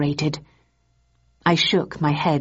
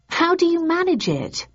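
baffled question; 12 semitones higher than usual. Acted. Thursday baffled asking.

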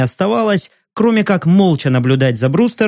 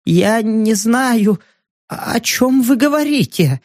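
scared journalist; 6 semitones higher, slower than usual. Acted.

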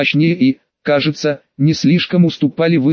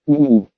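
pained groan. Acted. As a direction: groan through the pain. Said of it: "Стон снова вышел не только мысленным".

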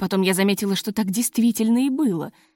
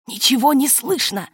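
grumbling; 3 semitones higher than usual. A narrator's reading. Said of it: "сердито ... ворчал Розанов".

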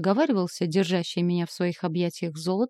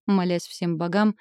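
ordinary delivery

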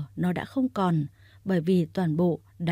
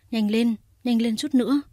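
urgent; 4 semitones higher, 5 dB louder than usual. A narrator's reading. Urging the driver to hurry.

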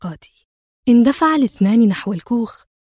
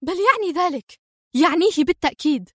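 much higher, raging insistence; furious yelling; 6 semitones higher than usual. Acted. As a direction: put him in his place, furious. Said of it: "صرخت في ثورة".

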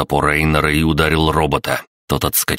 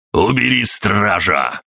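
higher urgent shout; 5 semitones higher, slower than usual. A narrator's reading. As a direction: yell the order. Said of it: "крикнул он".

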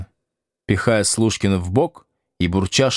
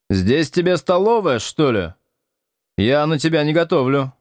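irritated wife; 6 semitones higher than usual. Acted. Wife snaps at freeloading guest.

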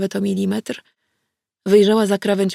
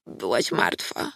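low breathless whisper, slow; 11 semitones lower, 5 dB quieter, slower than usual. A narrator's reading. Frightened girl tells the narrator, whispered. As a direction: barely breathe the words. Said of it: "wyszeptała".

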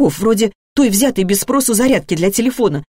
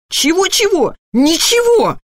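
high-pitched mocking echo; irritated mother's sing-song retort; angry mimicking; 10 semitones higher, 3 dB louder, slower than usual. A narrator's reading. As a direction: mimic the child crossly, pitched right up. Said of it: "сердито передразнила Алёна".

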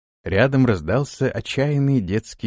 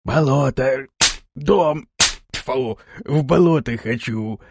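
creature howl; slower than usual. Acted. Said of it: "завыла Кикимора".

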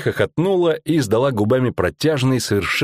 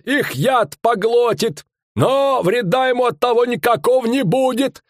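a pitched-up showman bellowing his tale; fairground barker; 13 semitones higher than usual. Acted. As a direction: sell the monster to the crowd. Showman barker voiced in story.

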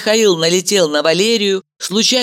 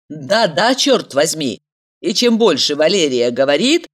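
ordinary delivery, nothing marked

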